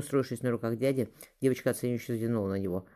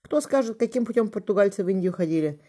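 higher, louder playful question; quizzing the children; 9 semitones higher, 6 dB louder than usual. A narrator's reading. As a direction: test the kids like a teacher. Отец спрашивает детей. (отец шутливо экзаменует детей)

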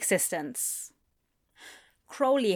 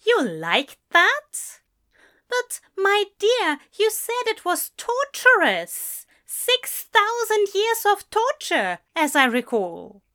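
high-pitched, louder incredulous protest; baffled; 11 semitones higher, 5 dB louder than usual. A narrator's reading. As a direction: remind him in sheer disbelief, voice pitched up. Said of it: "Aziraphale sounded baffled and suddenly quite sober".

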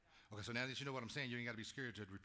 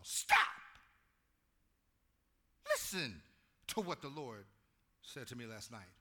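much louder stern stop; Samuel commanding; 9 dB louder than usual. Acted. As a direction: halt him with one word.

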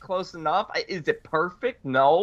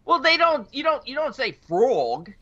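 emphatic disagreement; 8 semitones higher than usual. Real, not acted. Arguing the pronunciation.

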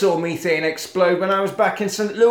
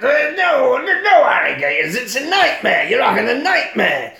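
loud, higher, over-acted insistence; hammed-up exasperated yell; mock insistent shout; 8 semitones higher, 4 dB louder than usual. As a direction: shout him down like a melodrama cop. Cop shouts down hysterical patient.

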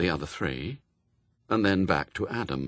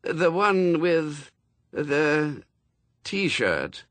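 higher, slow, faltering voice; uncertain; 7 semitones higher, much slower than usual. A narrator's reading. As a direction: trail off in doubt. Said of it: "his words trailing into uncertainty".

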